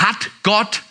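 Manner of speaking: slow, drawn-out sly serpent question; a hint of the sly serpent, stretched out slowly. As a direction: tempt like the snake, lightly voiced. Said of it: "und sagt".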